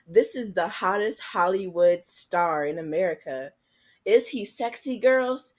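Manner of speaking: a hint of breathless sales pitch; imitated magazine hype. Magazine selling stars to teenage girls, mock hype. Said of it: "gossip magazines, they were selling".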